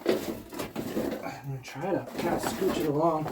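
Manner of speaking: strained, breathy effort while pushing; straining under weight. Real, not acted. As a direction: push through a heavy lift. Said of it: "it's so freaking heavy".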